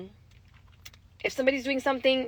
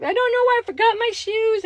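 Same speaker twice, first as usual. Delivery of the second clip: lightly voiced upset child, pitched higher; daughter's voice; 10 semitones higher, 5 dB louder than usual. Mother retelling daughter's apology, a hint of child voice. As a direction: play the kid, a little helpless. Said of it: "She's like".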